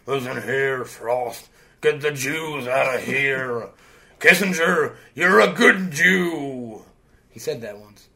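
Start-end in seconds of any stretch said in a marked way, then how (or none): 0.1-6.8 slow, gruff hammed-up Nixon; Nixon impression. Doing Nixon for his friend, slow hammed-up impression. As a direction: growl it like a paranoid president. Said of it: "Nixon talked like this".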